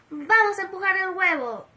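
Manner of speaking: Bartolo grita un poco más alto; grito. Acted. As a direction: gritar con ganas de empezar. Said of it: "Bartolo gritó". (Bartolo anima a empujar el huevo, gritando)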